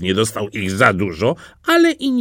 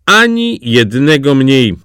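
slow, louder haggling reply; firm retort; 3 semitones higher, 5 dB louder than usual. A narrator's reading. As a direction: hold the price, stressing each word. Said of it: "odparł świniopas".

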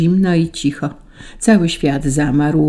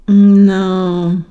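long, louder hesitant hum; uncertain; 3 semitones higher, 6 dB louder than usual. A narrator's reading. An angel facing Saint Peter's question, uncertain stalling. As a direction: stall on one drawn-out word. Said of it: "anioł uśmiechnął się niepewnie".

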